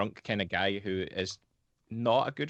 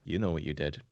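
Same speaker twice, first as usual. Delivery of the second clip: deadpan; 4 semitones lower than usual. Retold or imitated. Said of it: "dead, deadpan face".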